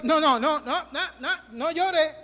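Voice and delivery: hushing someone through a laugh; half-laughing no no no; laughing mock hush. Pastor mocks people who hush criers, laughing.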